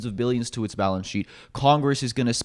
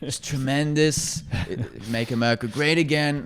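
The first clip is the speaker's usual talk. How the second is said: badly faked presidential slogan voice; Donald Trump; 2 semitones higher than usual. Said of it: "That's terrible".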